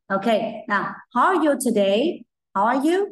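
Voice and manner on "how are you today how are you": put-on higher, bright question for kids; sing-song model question; teacher modelling. Shown as a demonstration. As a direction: ask it like a cheerful teacher. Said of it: "Thế còn cô thì sao nhỉ".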